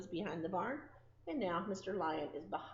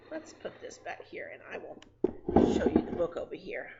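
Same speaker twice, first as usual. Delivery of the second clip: whispered aside; 3 semitones lower, 4 dB louder than usual. Real, not acted. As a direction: murmur while moving things around. Aside while handling books.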